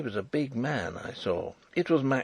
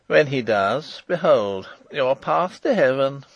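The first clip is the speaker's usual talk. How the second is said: louder, with a cruel sneer; 3 semitones higher, 6 dB louder than usual. Acted. Jailer sneering a threat at the King, louder and cruel. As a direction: jeer it at him like a threat. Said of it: "sneered Detchard".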